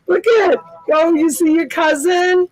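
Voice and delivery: high, sing-song cooing to a puppy. Real, not acted. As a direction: coo at the dog with delight. Talking to the puppy.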